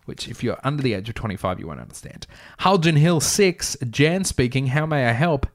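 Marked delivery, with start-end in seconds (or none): 2.6-5.5 higher, louder switchboard greeting; put-on receptionist picking up a call; phone receptionist. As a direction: answer the office line in a sing-out voice. Acts receptionist answering the phone.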